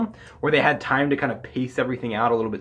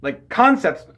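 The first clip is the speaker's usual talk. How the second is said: talking through hiccups; words broken by a hiccup; 4 dB louder, slower than usual. Real, not acted. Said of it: "excuse me, I'm hiccuping now".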